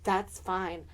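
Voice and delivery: mock-stoic speech to mom; quiet defiance. Rehearsed defiant speech to mother.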